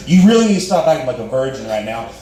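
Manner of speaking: mildly exasperated retold scolding, quick; frustrated. She scolds him as they make out, quick retold frustration. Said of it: "she's getting frustrated".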